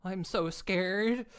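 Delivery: slow hammed-up fright, drawn out; dragged-out pretend fear; mock terror. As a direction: play at being scared, slowly. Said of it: "Or absolute terror".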